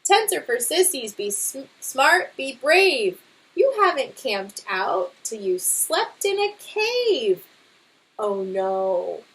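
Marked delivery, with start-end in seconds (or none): 0.0-7.5 lively storybook read-aloud; reading to children. Acted. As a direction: read it to a class, bright and expressive. Teacher reads picture book aloud.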